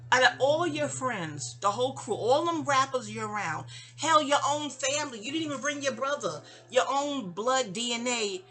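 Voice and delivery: indignant reproach. Retold or imitated. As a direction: list them off in mounting reproach. Replays confronting him about the cousin.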